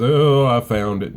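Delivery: loud, slow excited call. Retold or imitated. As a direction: announce the find with excitement. Wife announces finding the possum.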